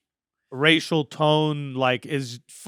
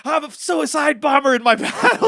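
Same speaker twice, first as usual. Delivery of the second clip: cocky battle rapper; 7 semitones higher, 5 dB louder than usual. Retold or imitated. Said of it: "I just started being like".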